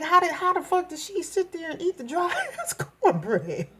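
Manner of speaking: high, laughing disbelief; laughing mock gossip. Elders laughing after the girl leaves, high laughing disbelief.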